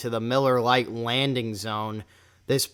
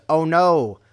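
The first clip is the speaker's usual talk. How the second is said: mildly raised mock yell; a louder, drawn-out cry of mock dismay; mock scream; 3 semitones higher, 5 dB louder than usual. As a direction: imitate a pitcher's scream, half-hearted. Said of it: "He screams".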